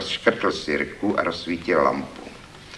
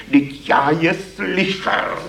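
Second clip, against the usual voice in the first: higher, slow defensive protest; insist, hurt, in a raised voice; 10 semitones higher, 4 dB louder, slower than usual. Acted. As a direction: poet defending himself against the critic, higher and slow. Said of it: "Bránil se hlas".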